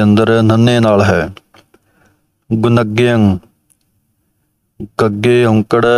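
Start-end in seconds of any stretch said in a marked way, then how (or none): 2.5-3.4 ਗੁਣਗਯੰ said gun-ga-yang with the n sound; correct pronunciation. Shown as a demonstration. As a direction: say ਗੁਣਗਯੰ with a clear n. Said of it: "ਇਸ ਤਰ੍ਹਾਂ ਬੋਲਣਾ ਹੈ". (ਗੁਣਗਯੰ ਸਹੀ ਉਚਾਰਨ)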